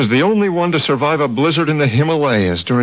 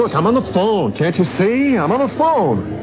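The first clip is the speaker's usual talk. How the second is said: raised, higher call across the house; calling back to guests; 8 semitones higher than usual. Acted. Herb calls back to his guests while on the phone, raised and higher. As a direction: call out to the next room, a bit irritated.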